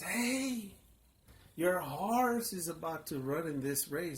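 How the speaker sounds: loud, high call across the crowd. Retold or imitated. Friend runs back and calls out loudly that his horse is about to race. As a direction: hail him urgently from a distance.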